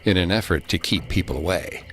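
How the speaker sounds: measured ghost-story telling with long pauses; eerie story narration. A narrator's reading. Host telling the legend of Devil's Kitchen, eerie narration.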